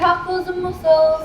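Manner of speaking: slow, loud, high market call; street vendor cry. Acted. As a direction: sing out the wares like a street seller. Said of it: "That's how Molly Malone used to sell 'em".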